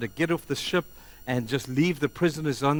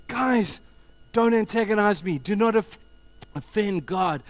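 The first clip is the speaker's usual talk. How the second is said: high, loud acted appeal; emphatic plea; 8 semitones higher, 6 dB louder than usual. Job telling friends not to offend God, loud plea. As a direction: push back forcefully in short bursts. Job pleading with his accusers.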